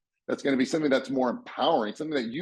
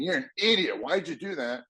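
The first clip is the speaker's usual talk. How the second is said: mock grumbling; 4 semitones higher than usual. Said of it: "If you're bitching and moaning".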